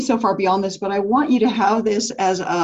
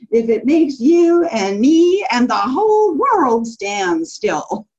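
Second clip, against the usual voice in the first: stubborn Zax voice; 2 semitones higher, slower than usual. Retold or imitated. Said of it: "in that Doctor Seuss thing where he says".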